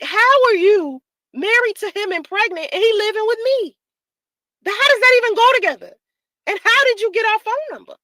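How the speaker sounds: high, fast disbelieving questions; outraged questioning. Retold or imitated. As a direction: fire off the questions in shock.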